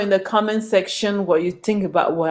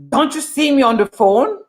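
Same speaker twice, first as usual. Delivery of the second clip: a touch of rude indignation; rude receptionist; 5 semitones higher than usual. Retold or imitated. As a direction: snap back like you're the one interrupting. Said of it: "That's how they talk to you".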